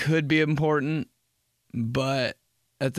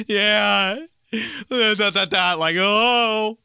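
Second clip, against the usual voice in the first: loud, high, hammed-up hilarity; mock amusement; 7 semitones higher, 5 dB louder, much slower than usual. Reacting to dot dot dot text, overdone amusement. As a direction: play it as if cracking up.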